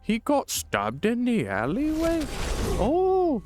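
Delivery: squeaky posh hostess gasping at the news; high posh lady voice. Pretend. Streamer voicing a gossiping lady, high and mock-posh.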